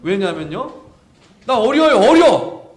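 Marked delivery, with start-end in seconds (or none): 1.4-2.6 higher, louder pleading; childish whine. Retold or imitated. Jeremiah pleading with God, childish whine. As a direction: wail it like a kid who's too young. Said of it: "나 어려했단 말이에요".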